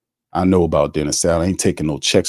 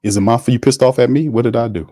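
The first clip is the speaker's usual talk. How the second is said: higher, mocking disbelief; incredulous questions; 5 semitones higher than usual. Real, not acted. Host challenging the coach's words in mock disbelief. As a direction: fire back in disbelief at the coach.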